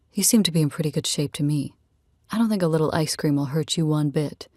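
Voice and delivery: lightly voiced easygoing man; a hint of a relaxed male character; easygoing Rad. Man telling a new friend about his family, lightly voiced, easygoing.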